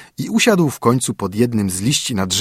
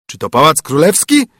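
bear calling out; 4 semitones higher, 4 dB louder than usual. A narrator's reading. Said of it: "zawołał niedźwiedź".

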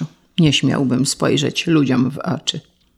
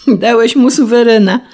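higher, louder, laughing incredulity; amused higher disbelief; shaking with laughter; 6 semitones higher, 5 dB louder than usual. Acted. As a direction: laugh out the question. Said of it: "Zatrząsł się malarz od śmiechu".

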